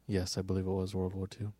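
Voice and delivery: mock public-radio voice, slightly low; NPR host voice. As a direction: lightly put on a measured radio-host voice. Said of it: "This is N P R".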